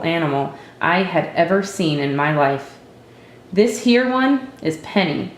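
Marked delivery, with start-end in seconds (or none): 3.5-5.3 higher, curt and unwelcoming; a cold, grudging intro; a hint of a girl's unfriendly pride; none too friendly. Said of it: "none too friendly about it".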